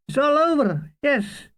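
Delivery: pitched high, falling on over; high wistful sigh. Acted. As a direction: lift it high and let it drop. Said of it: "says Mulgrew".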